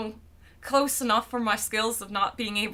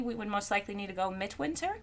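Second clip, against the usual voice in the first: usual speaking voice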